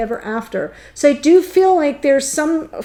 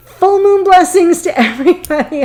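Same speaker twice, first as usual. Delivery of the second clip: bright, louder, higher blessing with a laugh breaking in; laughing sign-off; 6 semitones higher, 5 dB louder than usual. Real, not acted. Wishing viewers full moon blessings, laughing. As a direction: laugh through the goodbye blessing.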